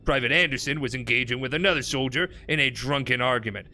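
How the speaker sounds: put-on gruff old-time army report reading; 1940s gruff voice. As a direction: read it like a gruff 1940s officer. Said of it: "my nineteen forties gruff voice".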